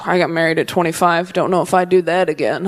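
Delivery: a hint of a weary married lady; older married person.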